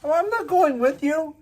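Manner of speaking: very high, loud mock refusal; high squeaky retort from the window; refusing. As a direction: protest in a squeaky voice. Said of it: "retorting to the stranger".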